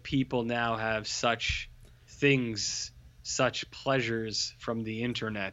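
slow, portentous movie demon, lightly voiced; imitated Cenobite. Host quoting Cenobites on modern technology, lightly mock-solemn. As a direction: draw the words out like a solemn Cenobite. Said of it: "they're, they're just like".

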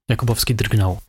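usual speaking voice

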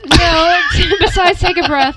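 laughing through the words. Real, not acted. Cohost laughing at the guest's joke, real laughter. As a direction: break into laughter as you speak. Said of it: "No, laughs".

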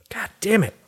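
hushed, exasperated swear; whispered curse. Real, not acted. Triggered by a commercial, a whispered curse. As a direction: curse it under your breath.

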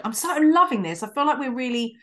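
trying not to laugh; giggling through the words; stifled giggles. Real, not acted. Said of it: "So I'm trying not to laugh".

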